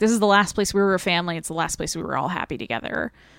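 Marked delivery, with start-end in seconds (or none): none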